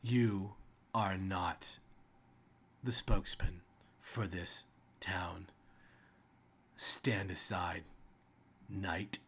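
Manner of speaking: lightly voiced, commanding woman rider; measured orders with long pauses between phrases; feminine rider voice. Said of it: "in a very feminine voice".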